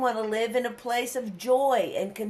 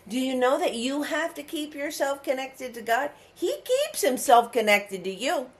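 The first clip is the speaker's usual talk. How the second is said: tearful appeal; 4 semitones higher than usual. Real, not acted. Crying heard in appeal.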